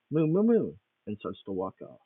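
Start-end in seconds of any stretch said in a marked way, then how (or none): 0.1-0.7 brisk cow moos as she leaves; louder higher cow moos. Acted. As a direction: moo it out quickly and firmly.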